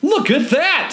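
high excited shout; passerby shouts. A narrator's reading. Passerby shouting to crowd, high call. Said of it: "someone shouts".

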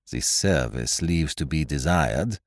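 put-on low, slow, dry French-accented observation; dry remark. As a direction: remark on it dryly, without hurry. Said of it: "he observed dryly".

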